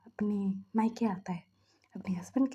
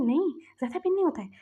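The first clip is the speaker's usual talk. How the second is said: higher, fast insistence; defensive retort; 5 semitones higher, faster than usual. Acted. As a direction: snap back in defence.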